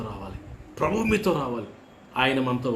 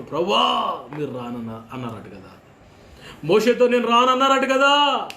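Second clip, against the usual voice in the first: pleading cry; 4 semitones higher, 5 dB louder than usual. Retold or imitated. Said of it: "ఏడుస్తున్నారయ్యా, మర్రా కేకలు".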